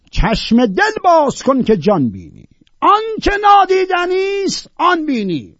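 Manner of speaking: high, loud verse recital; shouted verse. Shown as a demonstration. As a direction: shout the poem out. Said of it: "باید داد زد اینا رو خوند".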